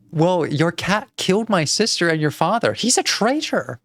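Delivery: lightly voiced indignant aunt, rising high; a hint of dramatic outrage; accusing aunt. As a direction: accuse the cat, drawing out the last words.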